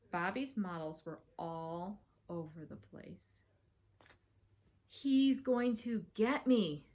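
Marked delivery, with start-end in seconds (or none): 4.9-6.9 slow, drawn-out worry; dreading. Acted. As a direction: let each word sink in with dread. Host dreads brother's revenge.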